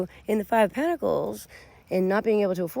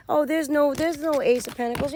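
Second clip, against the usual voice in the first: higher mock-innocent denial; put-on naysayer voice, raised pitch; acted cover-up; 6 semitones higher than usual. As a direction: imitate them denying it, pitched up. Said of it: "that's what they say".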